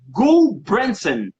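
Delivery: Gul Branson said slowly as two separate words; slow, deliberate "Gul Branson"; checking name pronunciation. Shown as a demonstration. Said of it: "como é que eu falo?".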